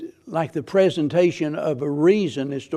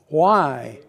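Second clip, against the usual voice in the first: voice from heaven; 3 dB louder than usual. Retold or imitated. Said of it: "a voice sounded from heaven".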